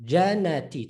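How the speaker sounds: Jannati with one short N; single noon. Shown as a demonstration. Teacher reading the word before adding shadda, single noon. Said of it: "Take note of the noon".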